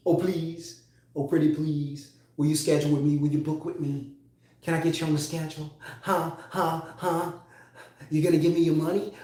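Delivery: whiny, pleading Gollum-like creature voice trailing into a whisper; begging like Smeagol. Retold or imitated. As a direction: grovel for the sale like Smeagol. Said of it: "I don't want you begging like, like Smeagol".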